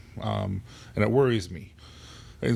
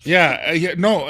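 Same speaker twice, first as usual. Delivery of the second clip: emphatic yes; 8 semitones higher, 8 dB louder than usual. Real, not acted. Emphatic agreement about moms.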